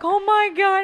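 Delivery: high, loud mock-panicked gasp; shrill panic. Embarrassed kid to her teacher, high loud mock panic. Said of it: "I was like".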